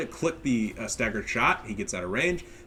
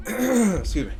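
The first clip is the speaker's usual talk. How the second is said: throat clear; 11 semitones higher, 5 dB louder, slower than usual. Real, not acted. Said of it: "Nose is a little bit stuffy".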